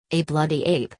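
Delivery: "bloody ape" said with mild emphasis; emphatic. A narrator's reading. Cranley repeats his insult to Glenn, with emphasis. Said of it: "Cranley repeated with emphasis".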